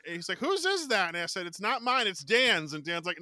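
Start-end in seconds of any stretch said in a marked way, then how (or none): 0.4-1.1 high, loud questioning; acted demand. Colleague asks who owns tape, high and loud. 1.5-2.7 high, loud protest; hastily disown it, acted; mock denial. Fan passes blame to friend, loud mock protest.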